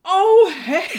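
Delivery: high, loud overdone oh hey; fake surprise. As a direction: pretend to just notice them. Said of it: "You gotta be some good acting".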